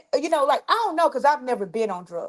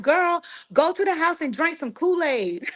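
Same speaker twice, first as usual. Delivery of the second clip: laughing quote; 7 semitones higher than usual. Retold or imitated. Relatives voiced, she laughs.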